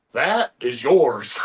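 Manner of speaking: very slow, weighty that is yours; slow it right down to intimidate; slow menacing giant. Retold or imitated. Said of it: "and he's like".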